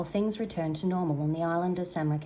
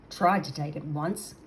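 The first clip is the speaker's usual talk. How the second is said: growled; 2 semitones lower than usual. Acted. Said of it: "growled Mutsuk".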